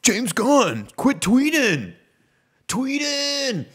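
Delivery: put-on high, loud pleading girlfriend voice; imitating the sketch to scold James Gunn, high and loud; high Megan sketch voice. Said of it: "the Megan skit from Key and Peele".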